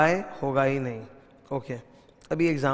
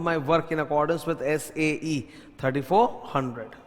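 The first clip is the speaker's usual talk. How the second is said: dictating notes word by word, very slow; slow dictation; much slower than usual. Shown as a demonstration. Teacher dictating notes to students, very slow. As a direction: spell it out slowly for note-taking.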